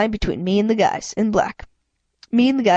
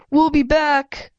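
menacing threat; 6 semitones higher, much slower than usual. A narrator's reading. Thug threatening while leaving.

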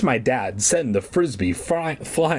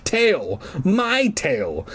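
sudden high alarmed cry; startled gasp at his own tail; shocked; 6 semitones higher, much slower than usual. Acted. Boy discovering his dog tail, shocked high cry.

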